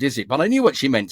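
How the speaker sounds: ordinary talk, nothing marked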